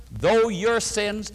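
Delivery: each word drawn out slowly; slow recitation. Shown as a demonstration. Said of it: "let's quote it together".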